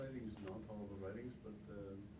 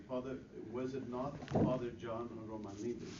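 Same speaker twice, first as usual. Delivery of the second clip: louder for someone hard of hearing; 4 dB louder than usual. Real, not acted. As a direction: raise the voice so he can hear. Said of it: "Can you speak louder".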